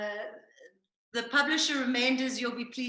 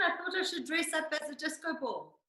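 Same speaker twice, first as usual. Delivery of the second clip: quick words through laughter; laughing while talking; 3 semitones higher, 6 dB quieter, faster than usual. Real, not acted. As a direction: giggle through the line.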